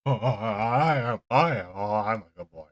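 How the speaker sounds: a dog thrilled by belly rubs; hammed-up eager dog; happy dog voice. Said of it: "Who's a good old boy?".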